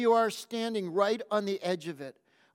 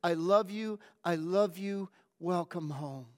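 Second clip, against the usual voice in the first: tender whisper. Acted. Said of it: "whisper over and over".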